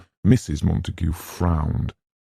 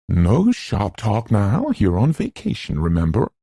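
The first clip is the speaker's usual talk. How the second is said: impatient reproof; 5 semitones higher, 3 dB louder than usual. Acted. Mrs Montague, impatient, cuts Arthur short.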